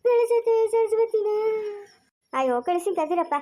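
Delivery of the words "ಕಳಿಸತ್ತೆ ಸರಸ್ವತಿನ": higher, wailing plea to his aunt; hammed-up weeping son begging to take his wife; fake tearful pleading. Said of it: "ಅಳ್ಬೇಡ ಕಲ್ದಿರು".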